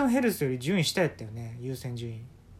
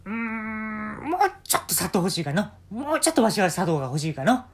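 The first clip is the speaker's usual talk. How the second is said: put-on old man; 5 semitones higher, 5 dB louder than usual. Old man tastes coffee.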